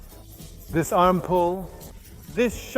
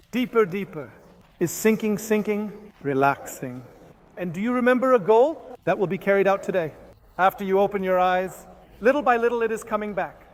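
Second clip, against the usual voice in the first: steady, soothing trance guide. Acted. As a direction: lead them down, then count up.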